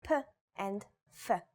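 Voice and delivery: "p" then "f", each a short separate syllable; two letter sounds. Shown as a demonstration. Teacher showing learners Pei is both sounds, sounded out separately. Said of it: "Pei is both".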